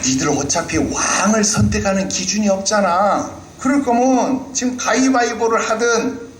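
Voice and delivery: Goliath challenging Israel to single combat, taunting; Goliath's challenge. Retold or imitated. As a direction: dare them to a one-on-one fight. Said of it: "구 절에 뭐라고 말합니까".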